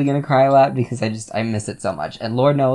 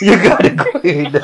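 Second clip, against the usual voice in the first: bartender voice; 7 semitones higher, 8 dB louder, slower than usual. Retold or imitated. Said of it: "That is what he would sound like".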